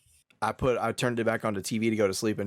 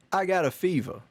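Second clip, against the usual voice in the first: cowbell sketch; 4 semitones higher than usual. Retold or imitated. Quoting Saturday Night Live for friends, lightly voiced. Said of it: "from Saturday Night Live".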